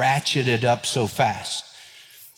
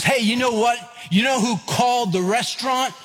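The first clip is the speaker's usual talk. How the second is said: much higher, playful gotcha; teasing wife; 9 semitones higher than usual. Retold or imitated. Wife pointing out that he made the call, much higher and teasing. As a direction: turn the blame back on him with glee.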